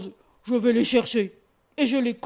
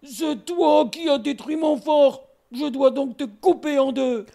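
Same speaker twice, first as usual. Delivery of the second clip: stern bear. Acted. Bear confronts boar.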